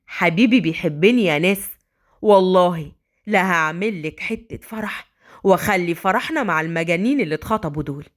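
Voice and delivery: joyful man in a low voice. Acted. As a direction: proclaim happy love, drawing out the vow. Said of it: "شالها وقال بفرحة".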